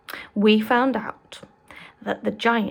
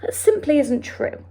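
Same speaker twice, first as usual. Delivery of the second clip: a touch of indignant protest, higher; mild anger; 5 semitones higher, 4 dB louder than usual. Acted. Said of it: "Sophie cried angrily".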